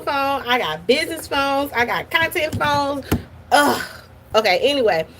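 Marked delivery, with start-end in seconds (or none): 3.5-3.8 fed-up groan; exasperated ugh. Real, not acted. Fed up with multiple phones.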